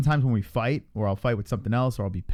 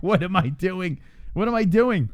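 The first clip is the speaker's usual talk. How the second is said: rising incredulous self-question; 7 semitones higher, 4 dB louder, slower than usual. Retold or imitated. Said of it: "and I'm like".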